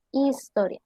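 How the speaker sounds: Historia said clearly as a model word. Shown as a demonstration. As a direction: stress on "to" in Historia. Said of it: "recae sobre la antepenúltima".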